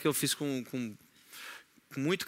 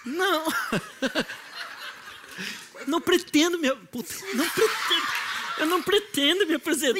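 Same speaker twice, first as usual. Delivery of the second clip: put-on baby voice; 11 semitones higher than usual. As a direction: play a little kid refusing, giggling. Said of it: "como se estivesse falando com o seu filho".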